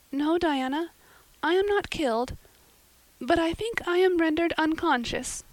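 put-on high girlish voice, dazed; a little girl, dreamily dramatic; young Anne. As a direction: Anne answers Diana after her fall, dazed. Anne's voice, high.

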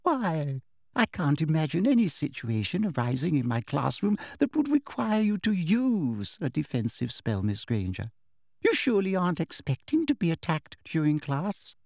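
lightly voiced prim teacher, falsely kind; sweet teacher voice. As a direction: talk down to her with syrupy politeness.

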